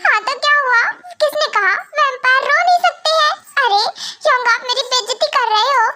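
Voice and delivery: whiny, hurt protest; childlike crying. Acted. Vampire king defending his crying to brother, childlike whine. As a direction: complain like a crying little child. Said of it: "जैसे कोई छोटा बच्चा रो रहा हो".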